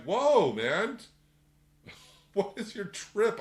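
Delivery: high, loud startled whoa. Pretend. Wife startled by the husband's outburst, high and loud. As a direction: recoil at the overreaction. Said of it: "You're like".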